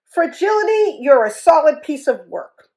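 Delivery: calling out. Acted. Elephant calling back to the hippo as he leaves. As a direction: call it out across the field. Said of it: "Rudy called".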